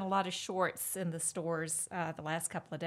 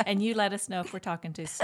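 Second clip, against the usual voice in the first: teasing reply through laughter; laughing; 4 dB louder, faster than usual. Real, not acted. Host teasing the guest about talking speed, laughing. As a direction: laugh as you tease back.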